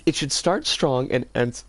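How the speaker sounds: reading with hiccups; hiccuping through the words. Real, not acted. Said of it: "I've got the hiccups".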